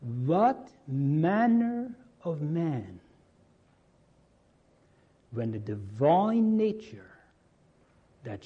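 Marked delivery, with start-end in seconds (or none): 0.0-3.0 slow, louder, higher, full of awe; marveling slowly at a mystery; awed wonder. Shown as a demonstration. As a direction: let the wonder stretch every word out. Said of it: "Do you hear it?".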